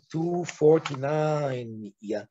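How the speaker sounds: hoarse, fading voice; raspy, half-whispered, voice going. Real, not acted. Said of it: "I'm losing my voice".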